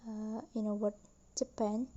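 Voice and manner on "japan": Japan with the stress on pan; second-syllable stress. Shown as a demonstration. Teacher showing the stem to learners, Japan stressed on pan. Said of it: "the stress is on the second syllable".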